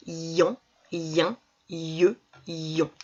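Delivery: "Ion, ien, ie, ion" one by one, each i clearly sounded; clearly heard i. Shown as a demonstration. Teacher listing the sounds to work on, i clearly voiced. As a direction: sound out each syllable with a distinct i. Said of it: "On entend bien le i".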